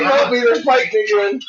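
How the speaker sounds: high pleading dog voice; voicing the dog. Owner voices her dog begging for help, high and pleading. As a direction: beg like a scared little dog. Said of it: "You like".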